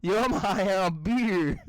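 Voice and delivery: slow mock bro drawl; dumb stoner voice. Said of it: "this kid is fucking retarded".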